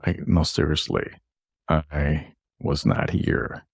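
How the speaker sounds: slow, deliberate retold denial; earnest denial. Customer insisting to the drive-thru worker, slow and earnest. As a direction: draw out each word to insist you mean it.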